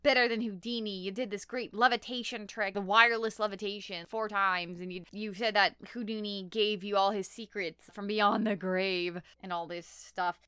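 put-on a touch of a pushy demanding kid; mildly hammed-up demanding; retelling a kid pestering a magician, lightly demanding. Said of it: "just starts demanding".

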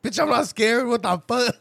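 loud indignant snap; mock-offended outburst; retold angry retort. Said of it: "went on the offensive".

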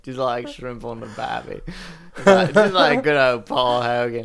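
broad mock Aussie accent; cartoonish Australian twang; offensive Australian accent. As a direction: ham up a stereotype Australian accent. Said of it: "very offensive Australian accent".

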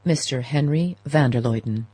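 butler's measured announcement; formal announcement. A narrator's reading. Butler announcing a visitor, formal announcement. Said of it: "and announced".

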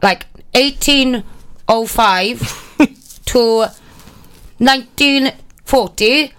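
slow, drawn-out mock lecture voice; a hint of a droning history teacher; dull history presenter. Mocking a dull history show for a friend, slow droning. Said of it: "but you're like".

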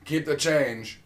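lightly put-on odd Eastern European accent; Tommy Wiseau. Quoting The Room to show the weird accent, light Eastern European accent. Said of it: "his weird accent".

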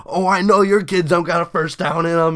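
imitating a taunting teacher; trash talk. Teacher needles the rival teacher at football, taunting. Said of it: "talking shit to each other".

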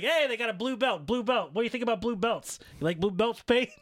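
high, loud goading questions; teasing Paige. Retold or imitated. CM Punk goading Paige about blue belts, high and loud. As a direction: poke at her relentlessly. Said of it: "he's like".

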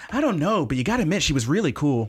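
gushing mom. Retold or imitated. Mom voiced in retold scene.

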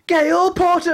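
very high, drawn-out cry of a name; high mock call. Teller imitates what suddenly came over the chat, high mock call. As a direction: sing it out in falsetto. Mimicking phone's shouted alert voice.

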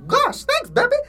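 squeaky high cartoon voice. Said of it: "said Cup Man".

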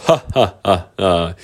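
staged, spaced-out "ha ha ha"; acted unicorn laugh. A narrator's reading. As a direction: laugh deliberately, as a storybook unicorn. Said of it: "the unicorn started to laugh".

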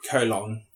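"Colon" with a full, clear LON; Megamind-style colon. Shown as a demonstration. Host savouring an odd word, "Colon" said koh-LON. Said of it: "I feel like Megamind when I say colon".

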